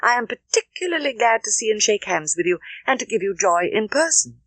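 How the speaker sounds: glad cry. Acted. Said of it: "cried Emma, most happy to begin".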